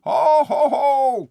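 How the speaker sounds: high, loud hammed-up ho ho; mocking ape laugh. The ape laughing at the dwarfs, loud mock laugh. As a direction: laugh them off. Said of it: "cried the ape".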